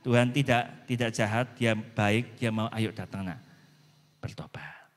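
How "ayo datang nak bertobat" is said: softly, fading into a whisper; tender call. Acted. God gently inviting a child to repent, whispered. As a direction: coax them back gently, almost breathless.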